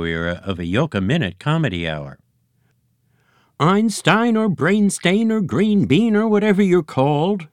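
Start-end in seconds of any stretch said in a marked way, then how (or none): 3.6-7.5 high, loud blustering egg boss; Eggy Senior voice. A narrator's reading. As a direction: bluster like a pompous egg chief. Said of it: "continued Eggy Senior".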